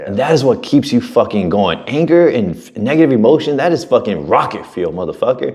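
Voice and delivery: high-pitched, impassioned retold coaching; fired-up pep talk. Mentor telling an angry client to use it, fired up. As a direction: drive it home like a worked-up coach.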